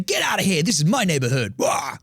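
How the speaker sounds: little dog standing its ground; small dog acting big. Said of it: "when little dogs think they're bigger".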